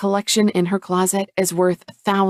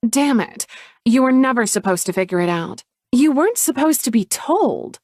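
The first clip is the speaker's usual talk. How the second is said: higher, frustrated sister; irritated sister voice, pitched up; Chloe caught out; 5 semitones higher, 4 dB louder than usual. Acted. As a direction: snap back at being found out.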